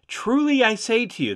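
"Truly I say to you" pitched high, stressing TRULY; emphatic. A narrator's reading. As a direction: lift "Truly" high to announce something important. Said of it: "That's to emphasize what he's about to say".

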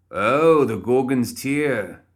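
loud high Oh, then Gorgon's Tear slow and savoured; light up and savour Gorgon's Tear; delighted. A narrator's reading. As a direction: Philip beaming at the name. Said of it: "Philip's face brightened".

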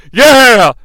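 excited yell. Retold or imitated. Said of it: "Shane says".

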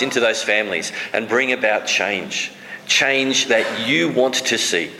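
prayer. Acted. Pastor prays for congregation.

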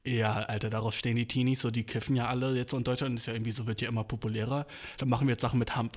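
lightly voiced corporate guy; mock executive. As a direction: play a clueless suit pitching to teens. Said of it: "Firm-Executives sich denken so".

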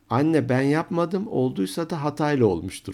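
put-on playful defensive kid voice; child calling back. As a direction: call back to mother, covering yourself in advance. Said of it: "bunu duyunca hiç oradan sesleniyor".

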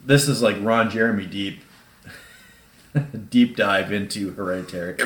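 hiccuping between words; talking through sudden hiccups. Real, not acted. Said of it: "I got the hiccups all of a sudden".

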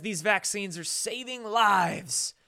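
mock Irish leprechaun accent; slow, hammy Irish lilt. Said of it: "My leprechaun voice cracks you up".

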